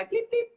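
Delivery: high-pitched little "bleep bleep"; imitated car beep. Singer pretending to lock her old car, imitated beep. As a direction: mimic a car's remote lock chirping. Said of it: "pretend to do the beep beep thing".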